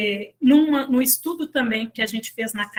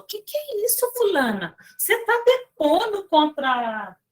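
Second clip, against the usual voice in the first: indignant surprise; 3 semitones higher than usual. Retold or imitated. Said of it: "Aí ela falou".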